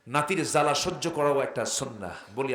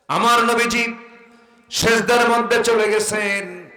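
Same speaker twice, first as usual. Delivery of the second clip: high, loud, slow preacher's cry; full force preaching; 9 semitones higher, 10 dB louder than usual. Real, not acted. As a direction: sing it out to the congregation. (উচ্চস্বরে ওয়াজের সুর)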